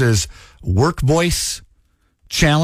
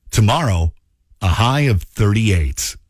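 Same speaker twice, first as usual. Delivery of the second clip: radio voice; 2 semitones lower than usual. Shown as a demonstration. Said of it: "Say something in your radio voice".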